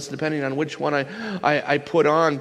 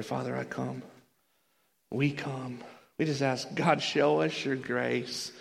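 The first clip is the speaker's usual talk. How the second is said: soft, hushed prayer; 6 dB quieter than usual. Real, not acted. Preacher praying to the Father for grace, softly. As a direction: lead them quietly into prayer.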